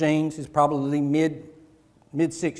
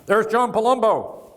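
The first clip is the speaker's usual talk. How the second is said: slow, raised call of a name; mock scream; 7 semitones higher, 4 dB louder, slower than usual. Fan in bookstore calling out, a slow mock scream. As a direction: call the name out across the store. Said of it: "somebody screamed out".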